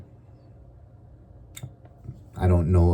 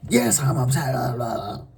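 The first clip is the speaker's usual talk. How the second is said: higher put-on voice of the upset person; angry person; 4 semitones higher, 4 dB quieter than usual. The irate person answers, a bit higher and huffy. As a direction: huff like the offended party.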